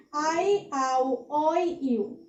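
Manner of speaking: memorisation recital. Shown as a demonstration. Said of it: "এরকম ভাবে example গুলো মুখস্থ করতে হবে".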